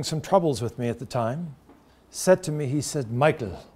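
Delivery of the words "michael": put-on Irish accent. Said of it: "in his Irish accent".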